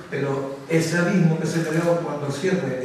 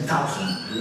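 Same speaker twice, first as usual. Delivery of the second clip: Irish "thousand" with TH as T, lower; Irish accent; 7 semitones lower, 4 dB quieter than usual. Shown as a demonstration. Showing how Irish teachers pronounce it, "thousand" with an Irish hard T. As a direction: say "thousand" as "tousand", Irish-style. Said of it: "la T H te la pronuncian como T".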